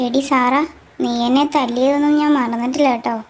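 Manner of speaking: loud, accusing shout at a rival; angry shout. Acted. A student yelling at a classmate who once hit her, loud and angry. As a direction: yell it out, still holding a grudge. Girls quarrelling at college.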